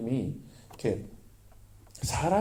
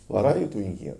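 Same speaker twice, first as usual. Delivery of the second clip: God's question quoted; 6 semitones lower, much slower than usual. Retold or imitated. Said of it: "이렇게 얘기하시는 거예요".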